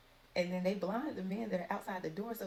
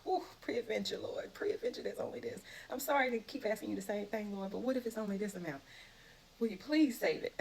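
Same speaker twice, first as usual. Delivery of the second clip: higher, half-whispered nervous begging, lifting at the end; anxious pleading; 3 semitones higher than usual. Retold or imitated. Abraham nervously begs the Lord to spare the city. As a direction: plead like you fear angering him. It's got to be very scary.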